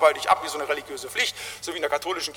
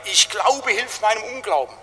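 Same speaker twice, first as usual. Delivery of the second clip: crying out; 4 semitones higher than usual. Retold or imitated. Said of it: "da schreit er".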